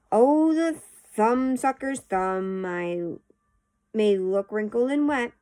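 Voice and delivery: lively sing-song storybook reading; poem read-aloud. A narrator's reading. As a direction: read the verse out with bouncy, expressive stress.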